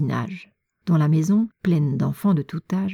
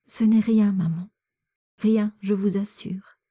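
higher, understated tearful reassurance; trying to smile; 3 semitones higher than usual. A narrator's reading. Daughter reassures mother after sobbing, trying to smile. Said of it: "ajouta-t-elle en essayant de sourire".

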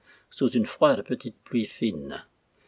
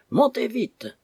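high, louder warning cry; urgent shout; 12 semitones higher, 3 dB louder, slower than usual. A narrator's reading. Young mate shouting below through the cabin skylight, urgent shout. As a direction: call down sharply to get them up on deck. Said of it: "je criai".

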